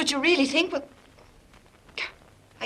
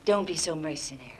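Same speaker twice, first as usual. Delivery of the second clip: low, much softer, coaxing murmur; soft seduction; 10 semitones lower, 14 dB quieter than usual. Acted. Trying to seduce Harry, she murmurs low and soft. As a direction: pull him in with a hushed, low voice.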